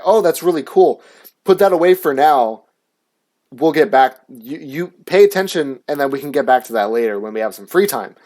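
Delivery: lightly encouraging, easygoing teacher voice; gently redirect a child back to class; friendly, reasonable mock-teacher tone; imagined kinder teacher. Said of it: "didn't that just sound so much fucking better".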